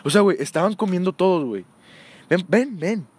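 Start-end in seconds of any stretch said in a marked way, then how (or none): 2.3-3.1 stern teacher. Retold or imitated. Teacher calling the boy over.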